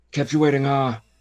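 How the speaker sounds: put-on New York grandpa voice. Arguing with friends about how a game character sounds: Kiefer Sutherland impression. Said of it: "that sounded like New York Grandpa".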